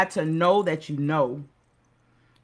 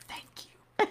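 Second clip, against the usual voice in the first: soft unvoiced whisper of thanks; 9 dB quieter than usual. Grateful mother whispering thanks to the preacher. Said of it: "his mama was right there".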